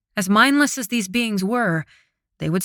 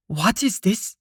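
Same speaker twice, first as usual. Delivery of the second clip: lightly hollow, eerie demon; a hint of a hollow spirit voice; slower than usual. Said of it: "asked the demon in a hollow voice".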